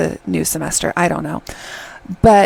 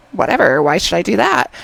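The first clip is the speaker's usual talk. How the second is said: mock huffy dismissal after a sigh; self-righteous. Seol refusing to apologize, imitated as self-righteous. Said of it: "all self-righteous".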